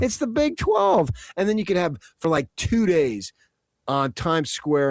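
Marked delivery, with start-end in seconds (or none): 0.0-1.1 very high, strained slogan cry; imitating hype call. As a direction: squeal it like a stadium hype man. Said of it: "When you put it at that level".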